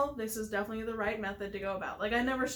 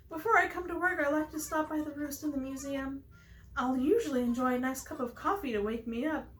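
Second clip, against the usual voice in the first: lightly raised character voice; Pelly character, chatty; 4 semitones higher than usual. Acted. Player reading Pelly's morning coffee habit, lightly voiced character. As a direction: read as a mildly chirpy coffee lover.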